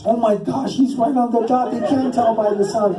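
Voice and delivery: high-pitched mock awe; imitating excited kids spreading the news; amazed kids. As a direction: exclaim it like astonished schoolkids. Retold kids amazed he is exact.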